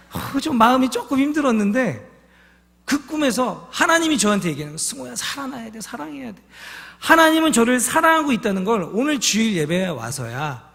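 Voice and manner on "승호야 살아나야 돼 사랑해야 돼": soft voice of God. Retold or imitated. God's voice in dream, hushed.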